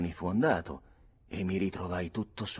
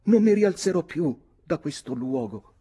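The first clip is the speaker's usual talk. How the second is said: gasping lament; 11 dB louder than usual. Acted. Nora feigning a swoon, high and wailing. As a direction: moan as if dying on the bench. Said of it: "ansimò Nora".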